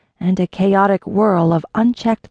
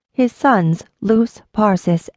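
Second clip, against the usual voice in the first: plain reading voice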